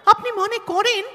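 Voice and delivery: heated challenge. Acted. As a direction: throw the question back at her hard. Bitter challenge about the marriage.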